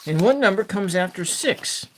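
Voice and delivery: put-on sing-song kids' TV host; children's show host. Sesame Street counting game.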